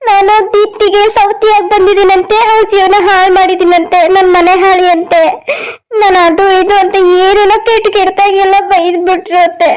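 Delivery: feigned tearful complaint; put-on crying. Telling mother-in-law of insults from two women, pretend crying. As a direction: sob lightly through a staged tale of hurt. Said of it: "ಯಾಕೆ ಅಳ್ತಾ ಇದೀಯಾ?".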